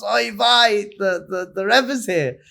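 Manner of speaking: panicked gasp. Retold or imitated. Chassid opens the door to his Rebbe, panicked and stammering. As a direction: blurt it out, caught off guard.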